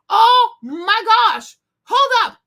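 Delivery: loud, stretched-out gasp of shock at what she just found; shocked exclamation. Real, not acted. Vlogger reacting to something on her screen, loud real shock.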